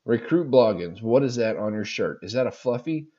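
a hint of a French-Canadian drill sergeant accent; lightly voiced French-Canadian sergeant barking at a recruit. Telling the fluffy story, a light French-Canadian sergeant voice. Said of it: "Imagine a female French-Canadian sergeant".

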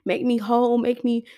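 heartfelt spoken prayer, pleading at times; earnest prayer. Real, not acted. Praying to God on her podcast, earnest prayer. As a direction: pray aloud to God, humbly and openly. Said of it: "I'm just gonna pray".

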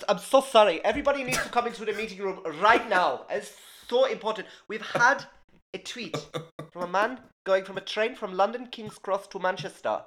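flustered boss calling a meeting; mock urgent staff announcement; panicked office announcement. Mock admin team panic announcement.

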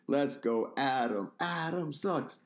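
chanting while breaking into laughter; giggling through a crowd chant; cracking up mid-line. Retold or imitated. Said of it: "had me corpsing".

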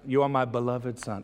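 stiffly formal address, played for contrast; mock formal. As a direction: say it as an over-formal declaration. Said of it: "it's formal".

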